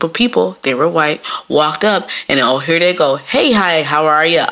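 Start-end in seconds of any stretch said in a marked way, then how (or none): 3.2-4.5 lightly mocked office-worker greeting. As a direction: imitate polite office small talk. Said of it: "that's the voice y'all use".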